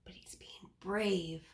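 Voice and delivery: hushed whisper. Real, not acted. Teacher whispers to children about the picture. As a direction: lean in and whisper it.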